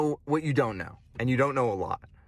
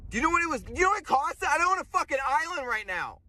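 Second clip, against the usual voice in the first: exasperated high rant; 13 semitones higher, faster than usual. Real, not acted. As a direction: voice jumps way higher in disbelief. Ranting about missing Bitcoin.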